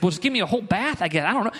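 lightly acted confused offer, hurried; perplexed. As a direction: voice a puzzled disciple giving in. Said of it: "Peter, kind of perplexed by this".

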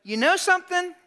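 high, loud exasperated scolding; Martha's complaint. Retold or imitated. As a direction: let Martha vent her frustration. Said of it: "she's like".

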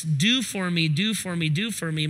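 mock the do-for-me crowd, trailing off; mock demand. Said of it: "stuck on this mindset".

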